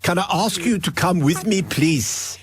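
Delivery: put-on lightly done South African accent; a mild South African official, polite. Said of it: "South African would have been".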